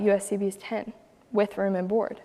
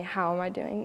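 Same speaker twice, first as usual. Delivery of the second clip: sincere question; 8 dB quieter than usual. Shown as a demonstration. Lady truly asking how girl is doing, soft and sincere. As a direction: ask it like you really mean it. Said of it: "Not just like".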